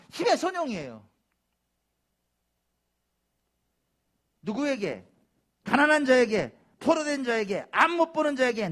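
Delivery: loud, high-pitched sermon delivery; emphatic preacher proclaiming; forceful preaching. Real, not acted. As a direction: drive each phrase home to the congregation.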